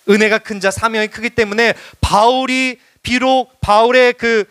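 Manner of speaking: high, emphatic sermon delivery; impassioned preaching. Real, not acted. Preacher concluding to beloved congregation, impassioned exhortation. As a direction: proclaim it with conviction to the congregation. Preaching goes on at raised pitch.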